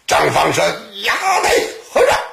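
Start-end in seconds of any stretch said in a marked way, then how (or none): 1.0-2.2 high exclamation at an opponent; sharp challenge. Acted. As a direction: accost him in a high, pitched-up call. 张芳 accosts the monk. (高声喝问)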